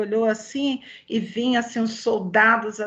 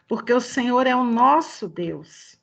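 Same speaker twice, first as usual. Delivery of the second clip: measured, earnest prayer in phrases. Real, not acted. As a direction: address God directly, phrase by phrase. Leads a closing prayer.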